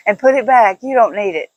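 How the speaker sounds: mock the daughter's bossiness, laughing; daughter's echo, laughing. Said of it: "my daughter".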